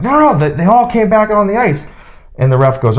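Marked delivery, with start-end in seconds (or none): 0.0-1.9 high pitched indignant complaint; mock outraged coach insisting; protesting coach. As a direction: whine it up high like the rival coach. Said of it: "He's like".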